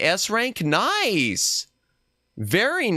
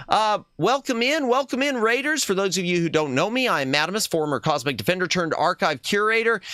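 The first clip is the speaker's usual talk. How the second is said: cute anime streamer; 3 semitones higher than usual. Acted. Introduces self as Madamus persona.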